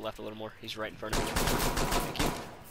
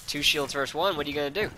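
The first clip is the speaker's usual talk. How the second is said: higher, louder gloating taunt; 5 semitones higher, 4 dB louder than usual. Real, not acted. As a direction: goad the enemy. Taunting outnumbered enemy.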